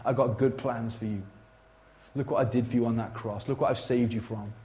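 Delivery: low, soft, gently earnest appeal; tender voice of Jesus. Acted. Jesus telling the congregation of his love, low and tender. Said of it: "the voice of Jesus speaking to you, saying".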